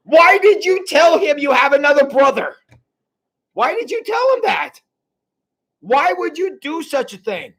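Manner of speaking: high-pitched, aggrieved father berating his sons; moaning father. Acted. Jacob scolds his sons over Benjamin, high moaning complaint. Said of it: "Jacob moaned".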